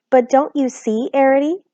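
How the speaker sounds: gasped. A narrator's reading. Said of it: "gasped Homily".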